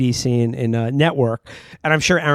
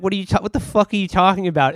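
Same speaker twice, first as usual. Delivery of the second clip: mock scoff; 4 semitones higher, faster than usual. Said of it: "she scoffs at him".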